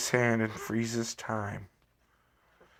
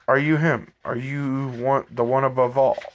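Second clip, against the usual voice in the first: louder, pressing questions; mild exasperated demanding; more confused and frustrated; 5 dB louder than usual. Acted. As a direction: push harder for an answer, baffled and vexed. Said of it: "becoming more confused and more frustrated".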